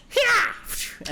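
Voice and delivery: very high, loud hyah to the horses; driver's yell. Acted. Ron shouts to drive the horses on. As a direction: whip the horses on. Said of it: "he begins to go".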